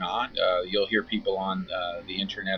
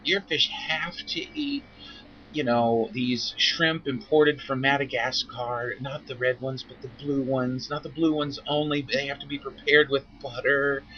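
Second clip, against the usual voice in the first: slow, higher, exaggerated sales pitch; mock fancy seller; 4 semitones higher, slower than usual. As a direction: ham up a fussy fish-food seller. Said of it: "we go".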